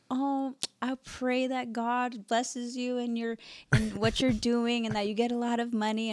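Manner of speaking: high, soft, drawn-out blessing, imitating mom; pious mom. Mom blessing her daughter's work, high and piously hammed-up.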